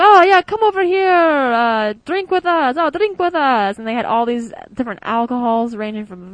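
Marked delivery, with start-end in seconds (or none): 0.0-3.8 much higher, loud, eager invitation; mock-excited Italian friends urging her to drink; excited welcome. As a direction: call her over like a cheerful party crowd.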